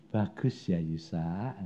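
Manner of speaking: low, soft sarcastic echo. Retold or imitated. God mocking the preacher's praise, sarcastic. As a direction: hand the praise back with a sneer.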